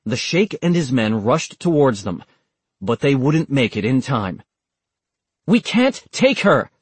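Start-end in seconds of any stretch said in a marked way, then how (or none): 5.5-6.7 loud, high urgent yell. A narrator's reading. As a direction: shout the protest. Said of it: "Walker yelled".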